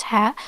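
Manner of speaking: "ha" with a light open H, no constriction; plain English H. Shown as a demonstration. Teacher warning what it is not, plain open ha. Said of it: "It's not ha".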